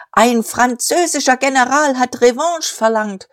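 high, strained oratorical cry; cracking shout. A narrator's reading. Diederich shouting over the applause, voice overstretched. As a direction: shout on though the voice tips over. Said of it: "schrie weiter, wenn ihm auch die Stimme überschnappte".

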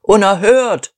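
"Unerhört" called out loud and indignant; outraged shout. Acted. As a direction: yell your outrage from the crowd. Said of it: "riefen die Lieferanten". (empörter Ausruf)

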